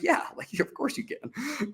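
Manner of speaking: high, slow, laughing reply; retold answer broken by a laugh; laughing yes. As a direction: Steve laughing as he agrees to unpaid help. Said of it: "And he was like".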